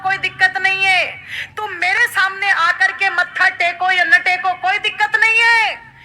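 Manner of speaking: high, insistent refrain in the goddess's words; voiced mother goddess. Preacher speaking as the goddess to devotees, high insistent voice. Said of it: "माँ तो यही कहती है".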